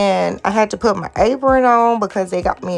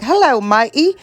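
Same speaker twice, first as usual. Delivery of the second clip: mock Australian; 8 dB louder than usual. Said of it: "I'ma be Australian".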